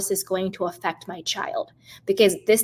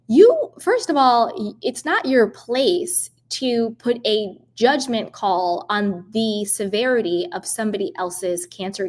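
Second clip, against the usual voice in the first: indignant outburst. Real, not acted. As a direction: tell her off, drawing it out in disbelief.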